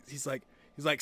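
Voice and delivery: ordinary delivery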